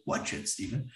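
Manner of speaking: whispered self-warning under the breath; a whispered note to self. Retold or imitated. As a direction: hush it like a warning to yourself. Inner warning to himself.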